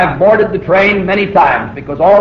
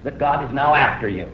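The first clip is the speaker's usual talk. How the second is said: nagging devil voice; 2 semitones lower, 7 dB quieter than usual. Retold or imitated. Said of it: "the devil said to me".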